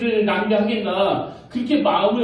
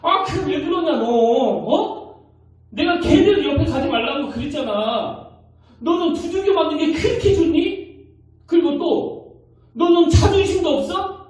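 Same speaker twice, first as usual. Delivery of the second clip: high-pitched exasperated scolding of a daughter; a mother's shrill-free but raised, frustrated nagging; 7 semitones higher, 3 dB louder than usual. Retold or imitated. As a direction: scold her like a fed-up mom. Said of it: "막 야단을".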